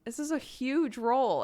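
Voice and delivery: high, coaxing mother voice; imitating mom. Mom consoling her upset daughter, high and soothing. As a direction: comfort the child like a gentle mom. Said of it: "my mom was like".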